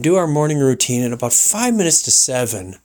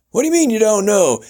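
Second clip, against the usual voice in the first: radio host; 9 semitones higher, 4 dB louder, faster than usual. Retold or imitated. Host imitated welcoming guest, high showman voice. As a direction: roll it out like a ranch host. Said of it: "talk about something".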